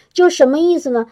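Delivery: usual speaking voice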